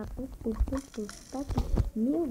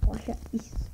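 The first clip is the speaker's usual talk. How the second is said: whispering; 2 semitones lower, 6 dB quieter than usual. Real, not acted. Whispered boast.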